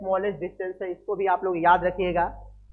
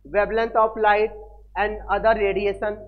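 slow dictation; 4 dB louder, much slower than usual. Shown as a demonstration. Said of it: "nanometre क्या होता है".

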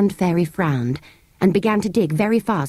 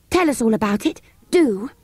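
put-on high, pleading child's voice; eager child; 5 semitones higher than usual. Children begging the sand fairy for its story, high and eager. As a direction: beg like an excited kid.

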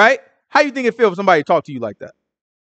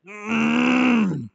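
long, higher, softer straining "mm"; pent-up hum; 4 semitones higher, 6 dB quieter than usual. Acted. Jeremiah with God's word shut up inside him, pent-up hum. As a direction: hum as if holding something burning inside. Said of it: "it's like a burning fire inside of me".

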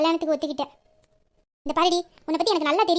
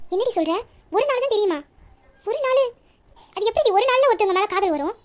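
stunned disbelief; 3 semitones higher than usual. Acted. Disbelief at love in one day.

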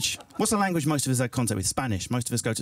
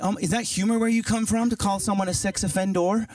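higher-pitched, mildly mock American; American accent; 4 semitones higher than usual. An American questions the British comic's humour, in an American accent. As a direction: put on an earnest American accent. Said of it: "the American was like".

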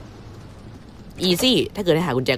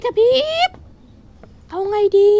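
much higher, squeaky cry of alarm. Acted. Gamer warning viewers the lights flicker in a squeaky cry.

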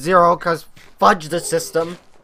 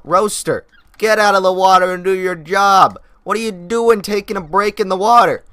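louder, half-joking telling-off of a pet dinosaur; mock scolding; 4 semitones higher, 5 dB louder than usual. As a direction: scold the dinosaur like a fed-up boss.

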